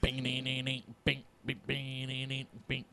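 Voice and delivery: soft vocal "bing-ding" jingle; imitated MIDI jingle. Co-host voices the segment jingle on request, imitated chimes. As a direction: imitate a chiming electronic intro, quietly. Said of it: "please give us the, uh, meaty".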